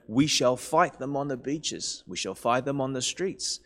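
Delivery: put-on lightly quoting Churchill, own accent; measured, emphatic mock oratory; stirring wartime speech. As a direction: give a touch of wartime rallying speech. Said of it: "bits of his stirring wartime speeches".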